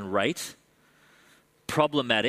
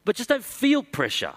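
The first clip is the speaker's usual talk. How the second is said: cheerful apostle, pitched way up; Paul voice; 9 semitones higher than usual. Acted. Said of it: "the Apostle Paul says".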